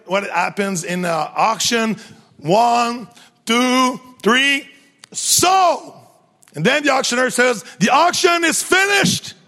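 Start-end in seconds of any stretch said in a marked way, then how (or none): 2.4-5.9 bang it down like a gavel; auctioneer's call. Acted. Auctioneer closing the sale, shouting. 7.8-9.3 high called-out announcement; auctioneer's announcement. Acted. Auctioneer telling the village it is over, shouting.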